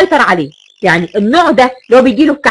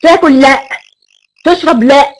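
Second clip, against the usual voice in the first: a touch louder, curt irritated refusals; angry snapping reply; 2 semitones higher, 3 dB louder than usual. Shown as a demonstration. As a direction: snap back like a short-tempered man. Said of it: "بصوت عصبي ومتعصب كده اهو". (بصوت عصبي ومتعصب)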